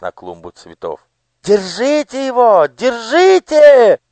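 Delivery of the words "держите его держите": much higher and louder, slow shriek; shrill yell. Acted. Daughter screaming after the fleeing girl, shrill yell. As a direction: shriek after her to catch her. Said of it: "визгливо закричала ей вслед Анидак".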